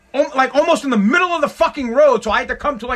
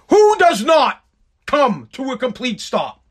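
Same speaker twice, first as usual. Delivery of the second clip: indignant cry; indignant outburst; 2 semitones higher, slower than usual. Real, not acted. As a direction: burst out in disbelief. Indignant rhetorical question.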